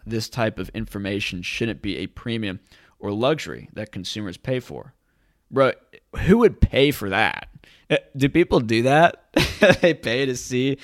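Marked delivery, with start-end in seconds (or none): 5.5-10.8 incredulous. Real, not acted. Incredulous at paying for data.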